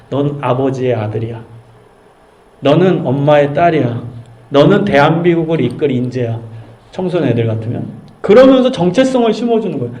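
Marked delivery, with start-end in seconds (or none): 0.1-6.4 gentle encouragement. Retold or imitated. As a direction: build the child up gently. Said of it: "정체성을 심어주는 교육".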